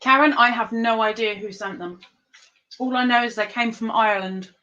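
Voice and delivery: talking through a mouthful of nut; mouth full. Real, not acted. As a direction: speak around a nut in the teeth. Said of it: "I'm talking with my mouth full".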